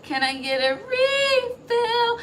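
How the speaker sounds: hammed-up high voice of someone begging a refill; mock customer. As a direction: squeeze out a high, drawn-out mock plea for a refill.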